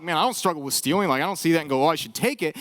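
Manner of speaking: low, offhand imitated listener; dismissive shrug. Voices listeners shrugging off stealing.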